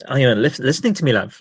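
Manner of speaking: lightly put-on New Zealand accent. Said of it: "I'm trying to do a New Zealand accent".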